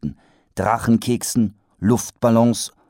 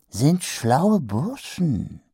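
whispered trader; 7 semitones higher, much slower than usual. Acted.

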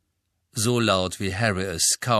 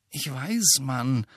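gently commiserating friend; mild, understated sympathy; sympathetic; 4 semitones higher, much slower than usual. Acted. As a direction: agree with fellow feeling. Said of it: "sagte Ron mitfühlend".

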